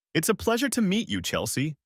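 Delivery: put-on a touch of French accent, suave and courteous; thick French accent. A narrator's reading. Pierre greets Chelsea, kissing her hand, in a light French accent. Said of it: "Pierre said in a thick French accent".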